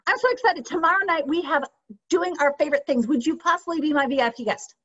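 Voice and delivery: high, fast, bubbling excitement; excited and fast. Shown as a demonstration. Coach demoing the excited phone script to her team. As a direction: gush it out quickly, thrilled. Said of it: "excited people talk fast".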